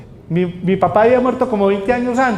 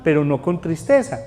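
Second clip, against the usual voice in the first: usual speaking voice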